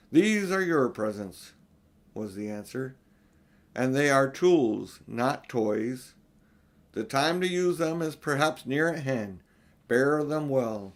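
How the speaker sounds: solemn Father Christmas. Acted. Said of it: "silent and solemn".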